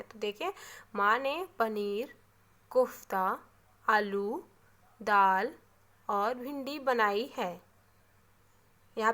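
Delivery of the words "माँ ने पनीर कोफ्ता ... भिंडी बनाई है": slow list, stopping briefly after "पनीर", "कोफ्ता", "आलू" and "दाल"; pausing between items. Shown as a demonstration. Teacher repeating a comma example, pausing after "पनीर", "कोफ्ता", "आलू", "दाल". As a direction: set "पनीर", "कोफ्ता", "आलू", "दाल" apart, then run on to "बनाई है". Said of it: "हम रुक करके बोल रहे हैं".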